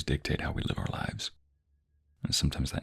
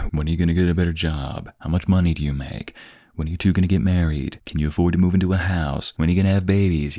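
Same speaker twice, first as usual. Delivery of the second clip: louder mock nosy relative; nagging relatives; 6 dB louder than usual. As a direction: rattle off the prying questions. Mimicking nosy relatives' questions.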